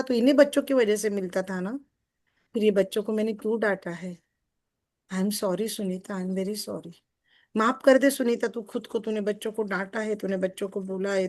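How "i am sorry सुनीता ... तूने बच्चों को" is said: heartfelt apology. Shown as a demonstration. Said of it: "मैंने example दिया".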